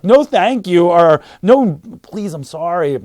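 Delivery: loud, hammed-up begging off; mock pleading. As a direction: plead loudly, then ease into apology. Retold plea to thrown-glass attacker.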